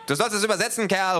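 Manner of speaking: high, loud impatient yell; high angry shout; yelling thug. Acted. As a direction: bark the order at him. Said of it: "ruft der Kleine".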